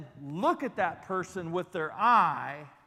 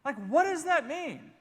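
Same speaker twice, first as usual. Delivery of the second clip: higher, baffled repeat of the question; bewildered question; 7 semitones higher than usual. Retold or imitated. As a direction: ask it like you truly don't get it. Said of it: "What in the world does that mean?".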